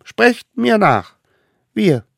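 high, loud, slow solemn call; leading an oath. A narrator's reading. Smallest one leading the oath loudly. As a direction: proclaim it for others to repeat.

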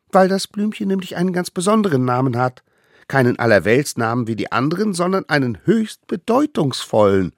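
high, eager little voice; tiny eager hunter. Acted. Little hunter brings food to the mammoth, high and eager. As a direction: play the smallest one, proud and keen. Allerkleinste hurried.

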